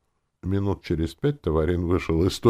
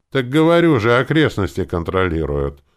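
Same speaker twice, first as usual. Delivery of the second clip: higher, louder insistence; insistent, pitched up at the start; slightly raised voice; 8 semitones higher, 9 dB louder than usual. A narrator's reading. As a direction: lift the voice in mild impatience. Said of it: "чуть возвысил голос друид".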